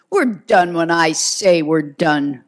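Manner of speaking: lieutenant asserting authority over the detective, mild snap. Acted. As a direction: snap it back to keep control. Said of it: "McGivney snapped".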